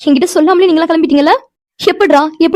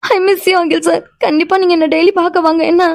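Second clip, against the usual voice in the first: tearful farewell. Acted. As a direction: plead through tears as you part. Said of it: "எதுக்குடி இப்ப அழுதுட்டே இருக்க". (அழுதபடி கெஞ்சும் குரல்)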